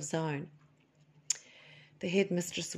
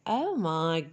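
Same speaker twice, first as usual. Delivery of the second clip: slow, swooning oh my God; amazed at chocolate; 2 semitones higher, slower than usual. Retold or imitated. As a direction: melt into the first taste of chocolate. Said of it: "trying chocolate and going".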